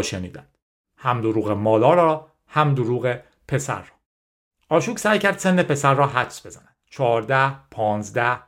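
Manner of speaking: measured audiobook reading, carefully articulated; story narration. A narrator's reading. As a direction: read the story out in phrases with pauses. Reads the story aloud.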